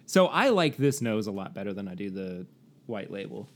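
ordinary talk, nothing marked

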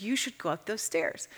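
softly, gently telling her to go on; gentle. Retold or imitated. God gently urging her up the stairs, softly. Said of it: "the Lord very gently said".

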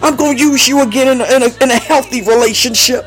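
insistent, rhythmic prophetic refrain; fervent preaching. Real, not acted. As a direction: declare each promise with conviction. Preaches a repeated promise.

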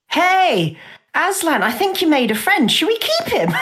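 giddy high-pitched suggestion; excited teasing. Retold or imitated. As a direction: tease him about the new pet. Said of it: "I was gonna be like".

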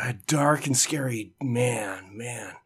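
unvoiced mock-scary whisper; spooky whisper. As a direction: whisper it like a ghost story.

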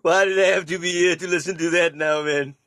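laughing. Real, not acted. Laughing at the remark.

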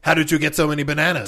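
loud, fast mock interrogation; interrogator voice. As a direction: press hard like a cop. Acted interrogators.

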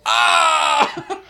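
high loud "Ah!" yell; tennis grunt. Retold or imitated. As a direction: burst out with a high yelp. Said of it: "a ninja pops out and goes".

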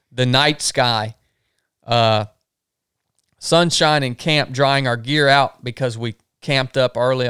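even, measured reading of a trip log; journal read-aloud. Real, not acted. Camper reading the day's river journal aloud, measured. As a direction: read the day's notes out steadily.

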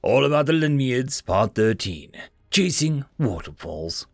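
documentary narrator voice; formal reference read. Acted. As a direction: read it like a textbook entry. Encyclopedia entry read aloud.

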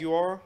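"Jaguar?" said as jag-yoo-ar; "Jaguar?" spoken jag-yoo-ar, asking; Jaguar with three syllables. Shown as a demonstration. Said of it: "Mister Pronunciation Police".

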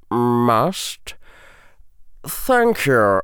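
slow, measured, final tone; stern professor voice. Acted. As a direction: thank her with cool finality. Snape voiced.

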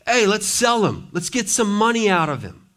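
scheming brothers. Acted. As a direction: toss it off like greedy thugs.

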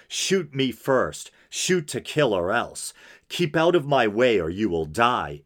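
deliberate, emphatic reading aloud; dramatic letter reading. Acted. Podcaster reading a killer's letter to listeners, dramatic reading. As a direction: read it out as a formal statement.

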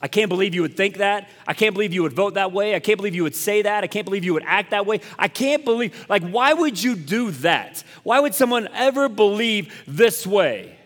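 acted-out judge, building from incredulous to indignant; mock righteous indignation; judgmental disbelief. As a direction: pile up the disbelief, pitch climbing toward the end. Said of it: "You become the judge".

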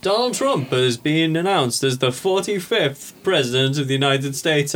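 slow, measured TV announcer imitation; mock news announcement. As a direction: announce the result like a newsreader.

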